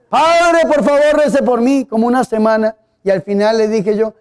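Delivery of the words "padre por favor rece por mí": put-on a high, pleading little old lady begging; pleading old woman. Priest imitates old woman begging him for prayers, pleading. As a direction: beg like a tired old woman.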